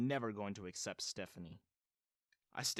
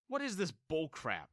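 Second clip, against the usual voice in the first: startled outburst; exclaimed; 5 semitones higher than usual. A narrator's reading. Son reacting to stepmom's strange claim, exclaiming. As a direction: blurt it out in disbelief. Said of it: "I exclaimed".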